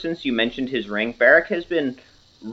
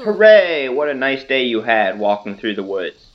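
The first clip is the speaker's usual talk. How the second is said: chipper cheer. Acted. GM cheer on another two.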